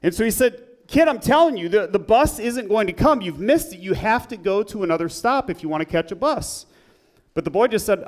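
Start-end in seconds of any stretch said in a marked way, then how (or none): 0.9-6.7 higher-pitched, irritated insisting; mildly irritated. Retold or imitated. Shop man telling a waiting boy off, mildly irritated. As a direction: imitate a man losing patience with a kid. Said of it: "He was a little irritated by this point".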